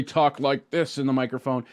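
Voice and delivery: fuller, projected mic voice; firm demo of a stronger voice; really talking up. Shown as a demonstration. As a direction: speak up clearly into the microphone. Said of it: "you want them to really".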